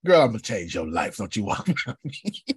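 brash, cocky call-out; swaggering pick-up attitude, ends laughing; bold attitude. Retold or imitated. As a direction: stop her in her tracks with swagger. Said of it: "That's my attitude".

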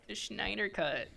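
"Schneider" said with a mushy "shn" at the start; silly pronunciation. Pretend. Announcing today's topic, silly pronunciation of "Schneider". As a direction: lean into the "sh" of "Schneider". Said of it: "I love saying it like that".

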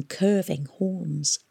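plain reading voice

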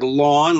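"lawn" said clearly, as in cutting the lawn; New York "lawn" for "Long"; spelled-out pronunciation. Shown as a demonstration. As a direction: demonstrate "lawn" as a separate word. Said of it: "like cut your lawn".

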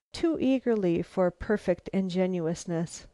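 plain reading voice

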